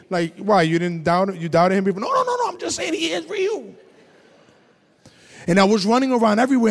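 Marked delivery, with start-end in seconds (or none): 2.0-3.7 high, quick no no no; insistent. Real, not acted. Answering imagined doubters, high and insistent. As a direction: wave off the doubt.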